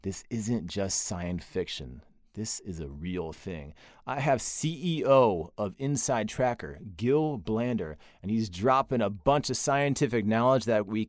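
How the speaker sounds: upbeat promo voice, lively and punchy; episode teaser read. Acted. Host teasing the episode to listeners, punchy promo read. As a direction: tease the guest like a trailer.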